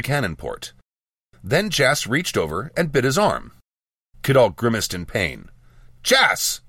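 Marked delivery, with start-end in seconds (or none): 6.0-6.6 high, sharp shout of a name. A narrator's reading. Mage to apprentice who bit an officer, shouted. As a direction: call out in alarmed reproof. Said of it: "I shouted".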